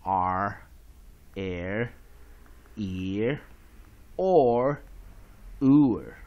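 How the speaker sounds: each r-coloured vowel drawn out and set apart by pauses; r-controlled vowels. Shown as a demonstration. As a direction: recite "R, L, ear, or, oor" one by one, like a phonics teacher. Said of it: "就念".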